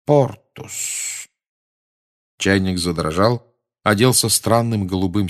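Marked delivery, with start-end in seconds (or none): 0.0-1.3 soft, breathy spell word; quiet incantation. A narrator's reading. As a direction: murmur the spell softly. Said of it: "и тихо сказал". (тихо произнесённое заклинание)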